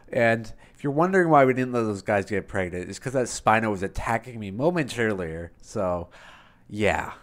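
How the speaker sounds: steady recap voiceover; gaming video voiceover; voiceover narration. Acted.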